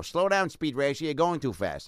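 mildly voiced 1940s cop; a hint of a bossy park cop; cop bit voice. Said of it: "Oh, that was the voice?".

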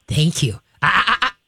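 calm, steady "Thank you"; calm praise. Shown as a demonstration. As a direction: praise the dog calmly. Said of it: "You're gonna calmly go".

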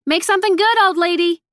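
high, playful holler after someone; shout. A narrator's reading. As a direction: call it out loud and high to someone walking off. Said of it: "Nettie shouted".

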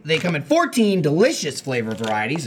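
upbeat sponsor read. Acted. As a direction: sell it like a radio ad. Reads the sponsor ad.

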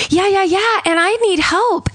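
high, sweet and calm, hiding panic; overly pleasant high phone voice; calm victim voice. Retold or imitated. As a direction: sound pleasant while in danger. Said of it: "the words she's saying don't match her tone".

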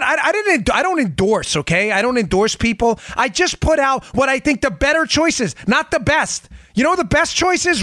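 high, heated political rant; fired-up rant. Real, not acted. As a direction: really get worked up, push every point hard. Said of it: "I'm getting a little fired up".

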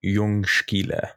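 "Jungskile" drawn out with sk softened toward sh; slow Swedish pronunciation. Shown as a demonstration. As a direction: sound out Jungskile slowly, as in Swedish. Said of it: "the K is very soft".

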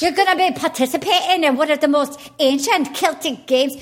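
put-on Scottish accent. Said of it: "do that Scottish accent".

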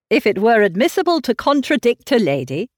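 lightly gallant suitor; politely contradicting a lady with charm. Acted. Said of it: "said the gallant Mister Elton".

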